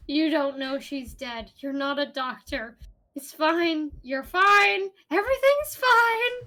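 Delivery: reassuring, climbing into panic; rising panic. Acted. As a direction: start calm, end frantic.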